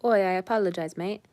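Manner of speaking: hammed-up British "mate" voice; jokey mock British accent; bad British accent. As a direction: apologize in a badly faked British accent. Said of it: "a really bad British accent".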